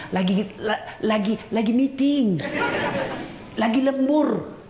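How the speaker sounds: stammering fake excuse, slowing at the end; mock excuse. Cheating husband lying on the phone to his wife, stammering. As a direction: fumble the lie to the wife. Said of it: "Ditelepon istrinya alasan".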